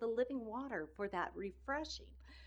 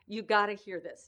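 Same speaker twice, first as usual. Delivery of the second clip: excited retelling; 10 dB louder than usual. Retold or imitated. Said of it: "I was so excited".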